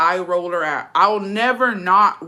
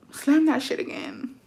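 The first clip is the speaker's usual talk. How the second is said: slow, higher-pitched dare; retold warning; 8 semitones higher, 4 dB quieter, slower than usual. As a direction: replay a controlled threat, drawing it out. Acted threat, first take.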